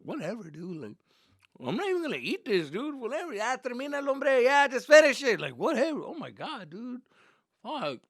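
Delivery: high-pitched mock-angry rant with loud peaks; angry whining. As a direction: sulk furiously like a caught son. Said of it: "I would just eat my taco in anger".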